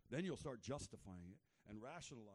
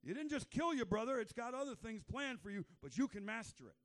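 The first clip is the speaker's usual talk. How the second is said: higher urgent warning voice; God gently warning Cain; voicing God; 9 semitones higher, 7 dB louder than usual. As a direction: warn him like a caring God. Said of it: "God's like".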